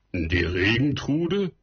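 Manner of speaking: Regentrude repeated hard and slow as a scoffing question; mock the word Regentrude slowly. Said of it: "wiederholte der Bauer hart". (hart und langsam wiederholt)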